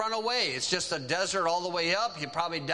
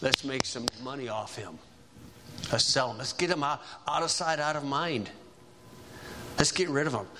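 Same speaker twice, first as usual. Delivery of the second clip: lower, plotting voice of a hard brother; scheming brother; 5 semitones lower than usual. Retold or imitated. Levi telling the brothers to sell Joseph, lower scheming voice. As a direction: lay out the plan low and cold. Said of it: "And Levi says".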